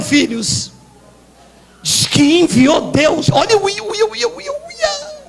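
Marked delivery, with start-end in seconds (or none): 3.3-5.2 high squeal climbing and fading; thin, climbing excited squeal; rising squeal. Real, not acted. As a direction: let out ever higher, softer whoops. Spontaneous squeal while preaching.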